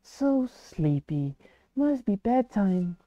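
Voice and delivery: slow, soft sleepy sigh; sleepy, drowsy murmur; drowsy child voice. Acted.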